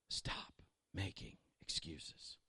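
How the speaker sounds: slow, soft whispered demand; intense whisper. Acted. Pastor repeats his charge to the church in a slow whisper. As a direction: hush it like a secret.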